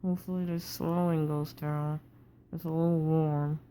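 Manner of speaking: talking through a wired-shut jaw. Real, not acted. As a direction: speak with teeth clamped together after jaw surgery. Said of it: "breathing is difficult with your mouth contained like this".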